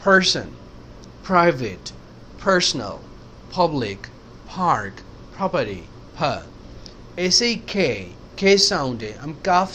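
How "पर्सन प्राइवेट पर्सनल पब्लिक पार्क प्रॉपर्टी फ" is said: पर्सन, प्राइवेट, पब्लिक with a puff on P; each P word aspirated toward फ. Shown as a demonstration. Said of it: "जबकि ये फ है". (प वाले शब्द हल्के ह के साथ)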